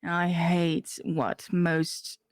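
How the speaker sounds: put-on slow character accent; accented character voice, unhurried; Gemma. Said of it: "I didn't do the accent".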